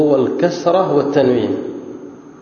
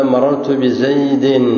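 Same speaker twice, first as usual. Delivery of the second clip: slow example; much slower than usual. Shown as a demonstration. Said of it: "فإذا قلت مثلًا".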